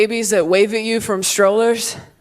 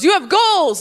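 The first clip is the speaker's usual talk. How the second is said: brain voice quoted; 6 semitones higher than usual. Retold or imitated. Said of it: "my brain goes".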